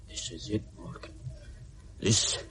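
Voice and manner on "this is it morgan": low hushed threat; a whispered promise of violence; menacing whisper. Acted. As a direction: breathe the threat in his ear. Menace before a knife attack.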